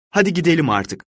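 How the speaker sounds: high, pleading "Hadi gidelim artık" with weight on "Hadi". A narrator's reading. Fortunato begging Montrezor to leave, high and pitiful. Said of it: "Fortunato'nun sesine hiç benzemiyordu".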